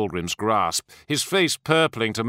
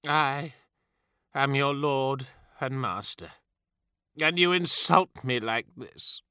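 a lord deeply hurt by insult; abject misery; 4 dB quieter than usual. A narrator's reading. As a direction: rage collapsed into self-pity. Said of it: "his rage transformed into abject misery".

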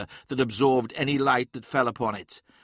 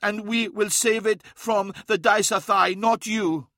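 higher-pitched indignant voice; mildly heated, pitched-up elder; angry defiance; 8 semitones higher than usual. A narrator's reading. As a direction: throw it back defiantly. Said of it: "saw his anger".

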